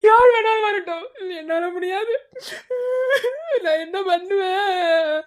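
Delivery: hammed-up sobbing, the last line dragged out slowly; mock sobbing. On the ledge, wailing to his friend in mock sobs. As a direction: overplay the heartbreak with fake sobs. Rocky sobs, threatening to jump.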